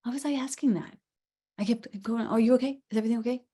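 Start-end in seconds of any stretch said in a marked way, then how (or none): 2.3-3.4 imitated anxious checking. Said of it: "I must have been afraid".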